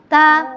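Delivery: "ta" with tongue down, clear A; "ta" as a plain thin T. Shown as a demonstration. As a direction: keep "ta" light and unthickened. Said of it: "Kalau ta lidahnya di bawah".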